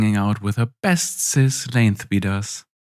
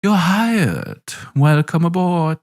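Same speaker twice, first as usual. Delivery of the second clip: cheery general voice; 9 semitones higher, 3 dB louder, slower than usual. Acted. General cheerfully hires them.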